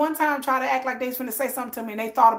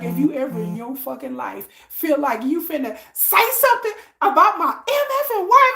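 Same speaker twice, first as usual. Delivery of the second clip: retold shout; 4 dB louder than usual. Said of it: "He's like".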